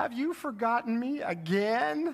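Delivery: mock forlorn, plaintive, small child's voice. Retelling a forgotten kid's message on the answering machine, imitating a sad voice. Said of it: "we heard this sad voice".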